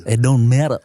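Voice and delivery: copying a mock Vietnamese accent. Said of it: "do a Vietnamese accent is to mimic".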